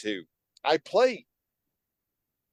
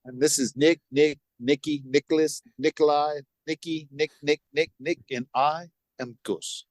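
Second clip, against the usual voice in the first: put-on Greek-accented patriarch introducing relatives; Gus. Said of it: "listen to how Gus talks".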